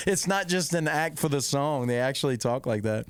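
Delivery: ordinary talk, nothing marked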